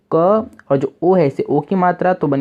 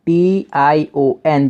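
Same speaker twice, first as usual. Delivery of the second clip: spelled out slowly; much slower than usual. Shown as a demonstration. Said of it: "इसे पढ़ लेना".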